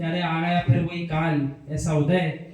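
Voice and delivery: low, subdued mock lament; mildly acted regret, voice dropped; regretful. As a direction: sigh it out as reluctant resignation. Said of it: "मन में खेद आना चाहिए".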